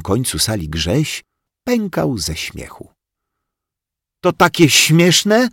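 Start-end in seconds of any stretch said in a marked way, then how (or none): 4.2-5.5 higher, louder, slow indignant question; girl huffing at a laughing boy; huffy. Acted. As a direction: huff it out offended. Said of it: "zasapała Rozalka".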